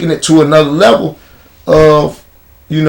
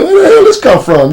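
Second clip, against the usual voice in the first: very high, loud Where the hell shock; shocked reaction; 5 dB louder than usual. Retold or imitated. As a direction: react like you can't believe your ears. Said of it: "You like".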